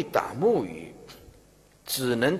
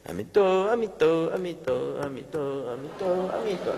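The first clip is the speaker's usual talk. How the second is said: rapid-fire Buddha chant; too fast; 2 semitones higher, 3 dB quieter, much faster than usual. Shown as a demonstration. Demonstrating to students how chanting at a deathbed is too fast, rushed. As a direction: rattle the syllables off with no gaps. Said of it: "太快就是这样".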